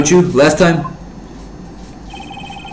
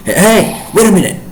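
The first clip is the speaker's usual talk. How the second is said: higher call to stop him; 7 semitones higher than usual. Acted. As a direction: shout to stop a friend leaving. Calling him back.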